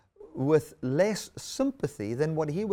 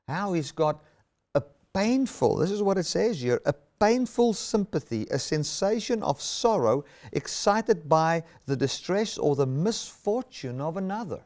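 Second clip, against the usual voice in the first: louder and higher, with rising fervor; emphatic preaching; 3 semitones higher, 3 dB louder than usual. Real, not acted. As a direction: drive the definition home. Preacher repeats the definition with force.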